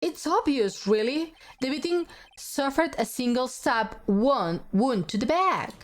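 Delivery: animated, theatrical deduction; courtroom detective figure. Acted. Explaining the stab wound evidence, lightly theatrical. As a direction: lay out the case like a game detective.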